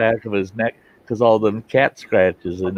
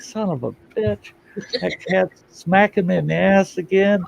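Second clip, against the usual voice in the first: voicing the dog, higher, a mock-annoyed grumble; dog's grumbling thought; 10 semitones higher than usual. Imagined dog, smacked by the cat, grumbling higher. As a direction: put words in the fed-up dog's mouth. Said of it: "that dog looks over his shoulder like".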